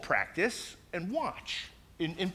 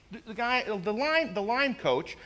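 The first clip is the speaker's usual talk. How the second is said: ordinary delivery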